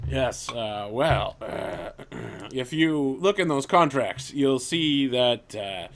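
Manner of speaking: pompous braggart, throat clearing; boastful NPC. Acted. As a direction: brag grandly to save face. NPC Rufus boasting to party.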